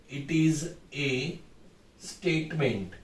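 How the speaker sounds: slow, quiet, word by word with long gaps; slow dictation while writing. Shown as a demonstration. Teacher writes the model answer for students, slow and quiet. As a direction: spell it out slowly as if writing on the board. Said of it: "ऐसे लिख देंगे आप".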